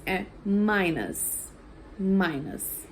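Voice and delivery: minus said slowly as "mai-nus"; minus, slow and clear, "mai-nus" sound; saying minus. Shown as a demonstration. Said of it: "O menos não é less".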